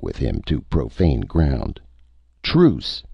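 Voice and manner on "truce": high-pitched cry to halt a fight; yelled. A narrator's reading. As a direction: call it out high, narrator's yell. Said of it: "he yelled in Cascellan".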